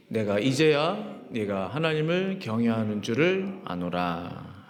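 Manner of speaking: scripture reading. Real, not acted. Pastor reads Genesis together with the congregation, measured recitation.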